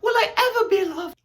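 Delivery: high loud crying plea; hammed-up heartbreak. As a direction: cry out like a soap heroine. Acted lovelorn exclamation.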